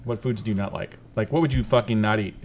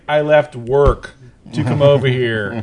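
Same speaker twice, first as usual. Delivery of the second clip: slow, louder, annoyed words; angry; 5 dB louder, slower than usual. Retold or imitated. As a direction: scold with mock outrage. Angry retort to wife.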